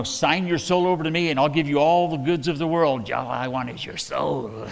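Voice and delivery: Satan-esque offer. Retold or imitated. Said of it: "doesn't that sound so Satan-esque".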